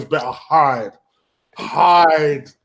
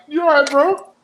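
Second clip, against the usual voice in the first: high, sugary fake concern; mock sympathy; 11 semitones higher than usual. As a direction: coo at him like he needs comforting. Taunting a rival fan with fake sympathy.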